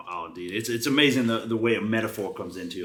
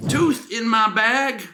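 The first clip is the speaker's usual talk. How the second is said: incredulous; 13 semitones higher, 6 dB louder, much slower than usual. Acted. Reading a funny review aloud.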